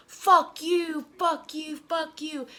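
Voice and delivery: high-pitched mock screaming match; hammed-up defiant jeer; retold defiant yelling. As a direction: fire it back in a high voice. Yelling back at the crowd.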